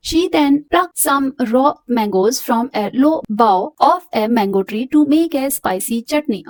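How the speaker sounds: slow, careful reading to a class; measured textbook reading; slow read-aloud. Acted. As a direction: read it out slowly for students. Teacher reads story aloud.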